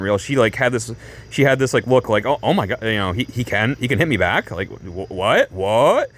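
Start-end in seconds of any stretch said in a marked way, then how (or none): 2.3-6.1 mildly acted shock, trailing into questioning; stunned disbelief. Tifa realising he can hit back, mock stunned disbelief. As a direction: imitate someone baffled, last words rising. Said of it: "totally stunned".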